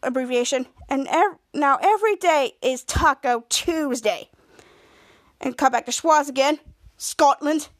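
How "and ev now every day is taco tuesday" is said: slow, imitated Russian accent. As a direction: draw it out with a mild Russian accent. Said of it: "speaking Russian".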